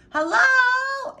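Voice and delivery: urgent high shout. A narrator's reading. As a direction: shout into the rubble. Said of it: "Abel shouted".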